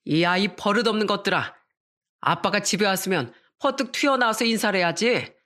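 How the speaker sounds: a hint of a drunk dad shouting at the kids; drunk father yelling. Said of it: "이렇게 소리를 질렀거든요". (술 취한 아빠가 아이들에게 소리치듯)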